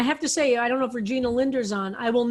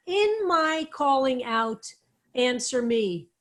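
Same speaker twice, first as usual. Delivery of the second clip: Dawad-style slow reading, "In my calling out" drawn out, then a long pause before "answer me."; slow "In my calling out," hold a big pause, then "answer me."; phrase split by a deliberate pause; slower than usual. Shown as a demonstration. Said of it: "Big pause".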